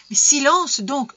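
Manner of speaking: exasperated hushing. A narrator's reading. Father cutting off his household, exasperated.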